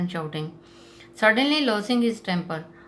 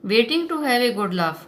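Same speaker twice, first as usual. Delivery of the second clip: slow louder sneer; taunting; 4 semitones higher, 5 dB louder, much slower than usual. Retold or imitated. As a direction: rub it in with a mocking lilt.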